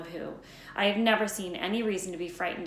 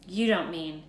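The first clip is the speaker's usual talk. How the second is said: louder, in protest; alarmed outcry; crying out; 3 semitones higher, 8 dB louder than usual. A narrator's reading. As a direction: cry out in disbelief. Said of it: "cried Professor McGonagall".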